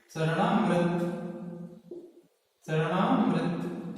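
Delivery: चरणामृत spoken slowly and carefully, each syllable clear; teacher slowly modelling चरणामृत; slow demo. Shown as a demonstration. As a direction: pronounce चरणामृत slowly for the class to copy. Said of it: "बोल के देखना".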